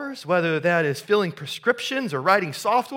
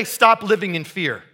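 scolding slogan; 3 semitones higher, 6 dB louder than usual. Retold or imitated. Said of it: "He didn't say it like that".

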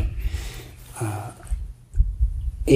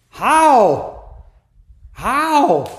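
high, puzzled monk asking how; questioning monk; 13 semitones higher, 3 dB louder than usual. Retold or imitated. Monk to Zen master, a high puzzled how. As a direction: ask it like a baffled young monk, much higher.

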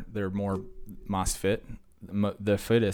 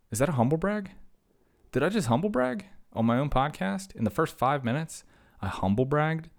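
high-pitched, incredulous self-questioning; mock shock; 8 semitones higher than usual. Podcaster catches himself humble bragging on his own podcast, mock shock. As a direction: ask yourself in hammed-up disbelief.

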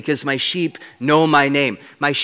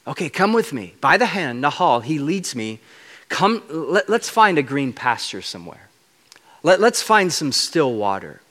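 softly coaxing a scared sheep; a shepherd calming a frightened sheep, gently; gentle shepherd voice. Acted. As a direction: lead it gently by the hand. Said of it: "speaking quietly to the sheep".

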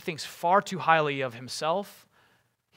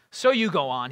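raised, impatient retort; impatient cry; 6 dB louder than usual. Acted. Boromir answers Frodo's refusal, impatient cry. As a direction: cry it out, pushing back. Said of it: "he cried".

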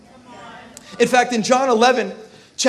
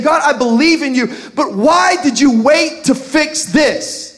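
frustrated believer; 4 semitones higher, 5 dB louder than usual. Retold or imitated.

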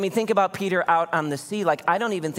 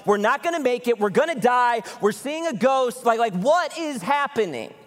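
higher-pitched, hammed-up freak-out; mock terror, pitched up without really screaming; mock panic; 5 semitones higher than usual. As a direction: imitate grown men panicking on a boat. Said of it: "a bunch of grown men on a boat screaming".

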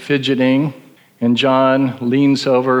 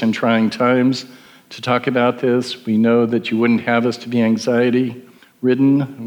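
prayer. Acted. Leads the congregation in prayer.

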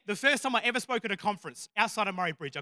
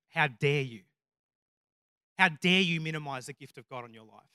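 measured, deadpan retold rebuke; serious, restrained reproach; 3 dB louder than usual. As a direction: challenge them sternly, no hint of a joke.

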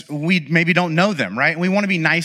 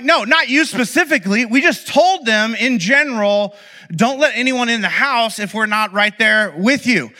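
laughing explanation; 6 semitones higher than usual. Retold or imitated. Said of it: "I'm like".

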